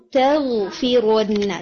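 تَغْفِرُنَّ said slowly with a light ta set apart from the ghain; separate ta and ghain. Shown as a demonstration. Teacher correcting a heavy ta, slow and careful. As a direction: keep the ta of تَغْفِرُنَّ thin and distinct from the ghain. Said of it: "تا الگ ہوگا، غین الگ ہوگا".

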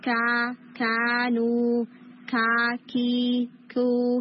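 کا، کانو، کی، کو with a strong hit and clean air, کانو drawn out slowly; firm ک in every syllable; crisp ک with a breath of air; correct kaaf demo. Shown as a demonstration. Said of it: "اس طرح کی sound ہوگی".

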